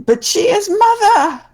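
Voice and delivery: high pitched little creature cry; squeaky creature voice. Acted. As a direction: squeal it like a small monkey. Creature pleading for its mother.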